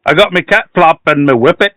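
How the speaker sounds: Yorkshire attempt slipping into Irish; Irish-sounding Yorkshire. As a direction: try Yorkshire and come out Irish. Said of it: "too Irish".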